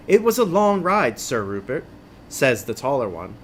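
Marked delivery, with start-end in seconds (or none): 0.1-1.9 knight. Acted. Voices taller knight addressing companion.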